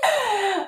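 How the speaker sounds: high, soft put-on whimper; mock crying squeak; fake whimper. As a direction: squeeze out a tiny sob. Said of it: "I'm gonna cry".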